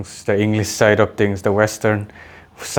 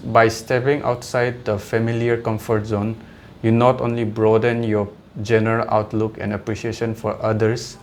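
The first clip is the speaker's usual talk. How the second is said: measured, slightly softer reading voice; reading own comment aloud; 3 dB quieter than usual. Shown as a demonstration. Vlogger reading his own online comment to viewers, steady read-aloud tone. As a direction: read your written words out evenly, like a prepared statement. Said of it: "so might as well read it".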